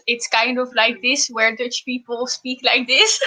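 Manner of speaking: heavy Dutch-accented English, put on. Shown as a demonstration. Showing viewers how Dutch people speak, mock Dutch accent. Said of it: "like, the typical Dutch accent".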